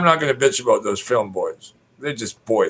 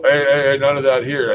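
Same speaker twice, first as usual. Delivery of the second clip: higher, louder mock telling-off; imitated scolding; 5 semitones higher, 4 dB louder than usual. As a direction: butt in like an officious busybody. Retold scolding from a busybody.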